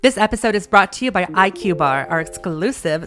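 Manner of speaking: upbeat podcast ad read; sponsor ad read. Acted. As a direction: sell the snack bar like a host ad.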